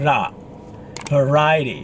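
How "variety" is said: "Variety" as va-RAI-ty; stress on second syllable. Shown as a demonstration. Teacher showing where the stress goes, second syllable. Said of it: "With the stress, second syllabus".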